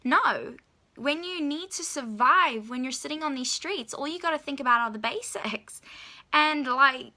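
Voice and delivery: exasperated lecture, acted out; upset scolding. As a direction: tell him off, mildly worked up, stressing key words. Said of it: "kinda got so upset with him".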